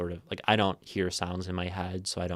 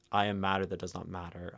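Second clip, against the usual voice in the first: fast, run together, no pause at the parentheses; plowing straight through; 4 dB quieter, faster than usual. Shown as a demonstration. Teacher showing her stream how to plow through the line, fast and run together. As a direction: rush the line in one breath, ignoring the parentheses. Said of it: "to plow through and ignore the parentheses".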